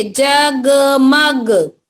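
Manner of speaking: जगमग said slowly with a fall; slow clear reading. Shown as a demonstration. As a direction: model जगमग clearly for children. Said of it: "जोर से बोलेंगे". (जगमग साफ़ और धीरे)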